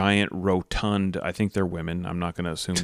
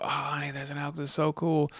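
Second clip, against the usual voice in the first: retold excitement; 7 semitones higher, 5 dB quieter than usual. Retells excited remark to wife.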